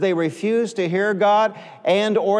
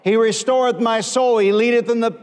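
psalm proclaimed in a sustained preacher's cadence; forceful preaching; 3 semitones higher than usual. Real, not acted. Preacher expounding the psalm to congregation, forceful proclamation. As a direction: proclaim the verse to the whole room.

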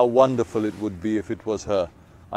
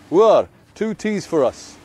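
slow, raised call across the tea house; calling out an order; 6 semitones higher, 4 dB louder, slower than usual. Retold or imitated. Old man calling to the tea server, slow raised call. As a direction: call the waiter for two teas, drawn out.

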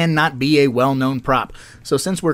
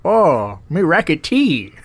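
lightly put-on Asian accent; mock Asian accent; slower than usual. Co-host playing the tea lady, mock Asian accent. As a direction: play along with a crude mock Asian accent. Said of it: "British lady speaking with an Asian accent".

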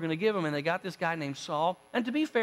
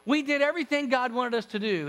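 higher, halting, over-eager greeting; a little nervous; 5 semitones higher than usual. Acted. Saul greeting Samuel after disobeying, a little nervous. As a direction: stumble through a mildly nervous welcome. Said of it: "Saul, a little bit nervously".

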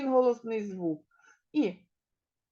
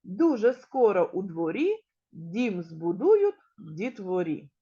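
put-on rhythmic, lifted verse for children; teacher's sing-song action rhyme; exercise rhyme recital; 2 semitones higher than usual. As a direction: chant it line by line to lead movements.

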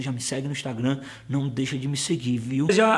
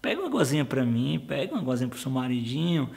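a touch of soft, lower sweet talk; coaxing husband; 3 semitones lower, 4 dB quieter than usual. Retold or imitated. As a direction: lightly wheedle like a pampered husband.

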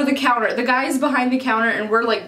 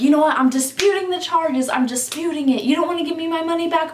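higher-pitched quoted arguing; mildly heated mock protest; retold heated dispute; 4 semitones higher, faster than usual. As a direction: argue back as an annoyed customer. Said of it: "Brendan's getting louder".

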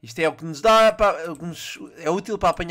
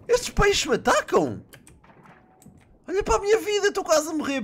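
mock crying; 10 semitones higher than usual. Real, not acted. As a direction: wail as if about to sob. Shark attacking, near death.

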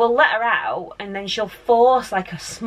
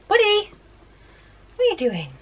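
high sing-song coo at the dog; 13 semitones higher than usual. Real, not acted. Cooing at the family dog.

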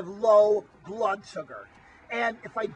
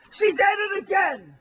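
exasperated outburst; 8 semitones higher than usual. Acted. Wally complaining about Tina.

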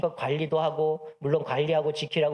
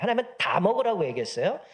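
ordinary talk

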